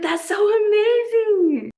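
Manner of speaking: high, loud, slow fake sob of pride; half-joking teary wail; mock crying. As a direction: pretend to weep with pride, hammed-up. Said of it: "I'm about to start crying".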